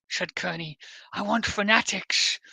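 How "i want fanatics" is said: slow, badly faked Liverpudlian accent; attempted Scouse accent. Reading out the activist's leaked quote, in a failed Scouse accent. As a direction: have a half-hearted go at Scouse, drawn out. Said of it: "I can't do a Scouse accent".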